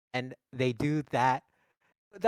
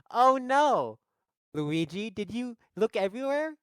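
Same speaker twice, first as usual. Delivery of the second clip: higher-pitched, mock-concerned princess; Anya Taylor-Joy; 7 semitones higher, 5 dB louder than usual. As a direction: play a worried heroine, hammed up. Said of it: "This is my Anya Taylor-Joy now".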